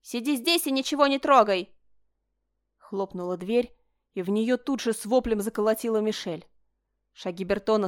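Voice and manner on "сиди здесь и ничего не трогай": louder, higher barked command; barked order. A narrator's reading. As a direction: bark the order at her. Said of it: "гаркнул на Мишель".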